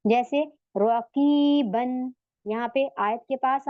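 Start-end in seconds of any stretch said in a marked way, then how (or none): 0.8-2.1 "रकीबन" slowly, long ee and closing n; double-zabar ending. Shown as a demonstration. Teacher showing the word before stopping, slow "रकीबन" with final n. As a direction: sound the n at the end of "रकीबन". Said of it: "दो जबर में".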